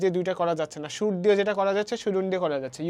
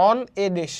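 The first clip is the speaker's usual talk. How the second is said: light "on a", then weight on "dish"; stress on DISH; much slower than usual. Shown as a demonstration. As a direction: put the emphasis on "dish", leave "on a" unstressed. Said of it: "on কিন্তু stress না". ("on a" হালকা, "dish"-এ জোর)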